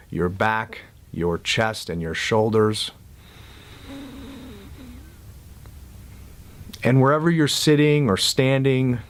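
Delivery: calm meditation guide with long pauses; guided breathing. Real, not acted. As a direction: lead each breath, leaving room to breathe. Leads a breathing exercise.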